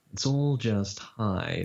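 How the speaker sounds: slow, silky seducer; drawn out, smooth and enunciated; graveled-honey lizard. Shown as a demonstration. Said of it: "voice like graveled honey".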